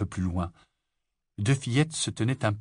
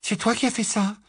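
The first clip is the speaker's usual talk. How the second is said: high, pressing accusation; accusing; 13 semitones higher, 3 dB louder than usual. A narrator's reading. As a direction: demand the truth, shocked. Lily accuses Rogue. (Lily accuse Rogue, voix aiguë)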